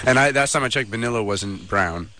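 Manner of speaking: mock indignant customer, slowing at the end; lightly acted snide complaint; passive aggressive. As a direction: needle the server politely. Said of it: "like, passive aggressive, Carvel patron".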